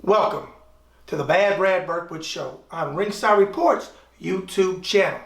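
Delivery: a hint of a boxing ring announcer; announcer intro. Self-introducing show host opening.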